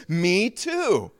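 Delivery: high, eager agreement; acted thrill at finding common ground; delighted discovery. First man to second man, high delighted agreement.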